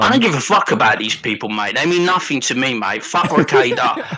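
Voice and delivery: lightly voiced South London geezer ranting; a hint of a London lad mouthing off, bruv; mild South London tirade at a mate. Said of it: "South London James voice".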